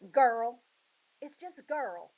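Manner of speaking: put-on high, odd little girl talking in old words; a filthy girl from the mountain answering the search party, high; wild little girl's voice. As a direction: play the strange lost girl, high and plain-spoken. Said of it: "She goes".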